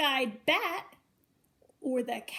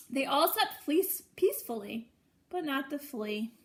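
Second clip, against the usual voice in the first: sing-song storybook reading, each line lifted; reading to children. A narrator's reading. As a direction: read it like a bedtime picture book for little ones. Reads a picture book to children.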